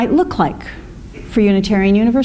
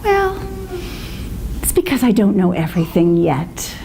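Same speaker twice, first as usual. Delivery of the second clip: calmly; 3 semitones lower, 3 dB quieter than usual. Retold or imitated. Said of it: "he would very calmly say".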